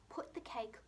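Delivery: soft whispered reminder. Shown as a demonstration. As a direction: whisper it as they start writing. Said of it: "your turn to write".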